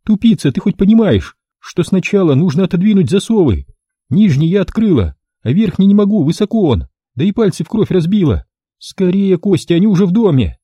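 high, urgent frightened woman; high pleading female voice; panicked woman. A narrator's reading. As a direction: hurry him in terror.

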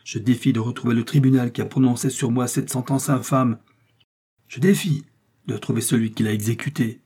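proud, defiant, with a sharp rise on défie; defiant challenge. Acted. Milady rises and defies her accusers, proud and sharp. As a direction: throw the challenge at the whole tribunal. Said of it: "dit Milady en se levant".

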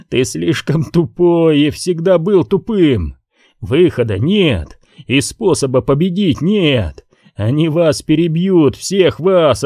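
high furious ranting; shouting. Acted. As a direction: scream the doom at him. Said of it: "Выкрикнув последнюю фразу".

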